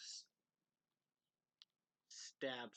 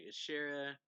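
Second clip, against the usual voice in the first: a sharp, louder call of the name; an urgent call to the other character; 3 semitones higher, 6 dB louder than usual. Acted. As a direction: snap the name out to get his attention.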